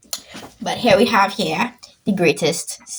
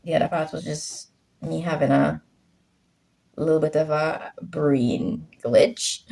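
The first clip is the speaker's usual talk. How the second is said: whispering; 3 semitones lower than usual. Real, not acted. Self-mocking aside.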